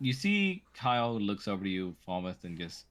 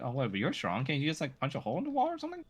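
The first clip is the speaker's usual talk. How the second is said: eager pleading; 6 semitones higher, faster than usual. Acted. A kid pleads, rising quickly.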